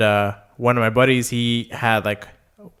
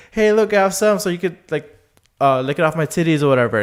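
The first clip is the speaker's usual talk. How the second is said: put-on higher, playful girly voice; 6 semitones higher, 3 dB louder than usual.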